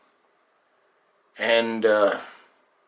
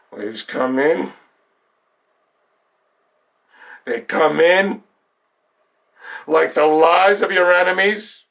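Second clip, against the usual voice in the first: guided meditation. Acted. Coach guiding listeners to picture a sunlit beach, measured meditation voice. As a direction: paint the scene phrase by phrase, unhurried.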